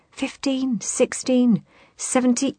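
high eager counting; counting eagerly. Acted. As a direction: count paces excitedly. Billy counting paces.

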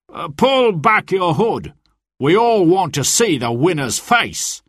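lightly voiced sly sheriff; sheriff's demand. A narrator's reading. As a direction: coax him to reveal himself. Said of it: "the sheriff said".

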